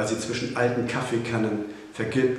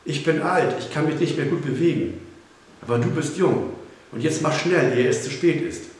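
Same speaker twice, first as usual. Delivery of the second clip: high, pressing plea; insistent, high-pitched appeal; urgent urging; 5 semitones higher, 4 dB louder than usual. A narrator's reading. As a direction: hurry someone into action, voice raised. Urging a jump before too late.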